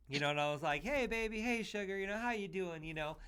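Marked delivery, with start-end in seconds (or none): 0.8-2.8 lightly retold Southern greeting, pitched up; Southern accent. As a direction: imitate your own old Southern accent, higher. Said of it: "I had the accent".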